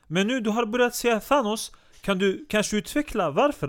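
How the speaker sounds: high, bright put-on teasing host; playful falsetto-ish interviewer voice; mock host voice. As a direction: lift the whole voice way up to tease him. Host mocks guest in high put-on voice.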